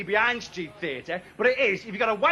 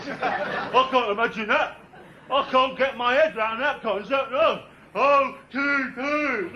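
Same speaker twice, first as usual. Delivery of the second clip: dim audience member; 3 semitones higher, slower than usual. Retold or imitated. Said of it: "you're all sitting there going".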